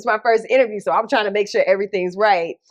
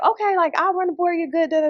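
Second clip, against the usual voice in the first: voicing China the producer; 9 semitones higher, faster than usual. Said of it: "she's like".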